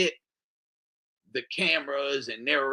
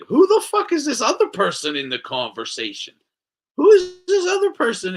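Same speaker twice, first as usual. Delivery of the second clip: loud, rising to a high shout; street-tough demand; 9 semitones higher, 7 dB louder than usual. Retold or imitated. A rapper demanding who the other person is, loud street-tough shout. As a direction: demand it like a real one from the street. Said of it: "like a real one from the street".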